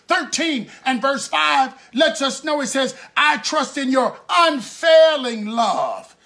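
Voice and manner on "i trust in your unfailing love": emphatic scripture proclamation; fervent preaching. Acted. Preacher quoting a psalm to congregation, fervent preaching. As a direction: ring out the verse from the pulpit.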